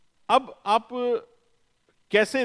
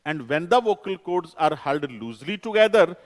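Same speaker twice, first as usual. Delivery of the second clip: slow dictation; 4 dB louder, much slower than usual. Shown as a demonstration. Teacher dictating definition in English.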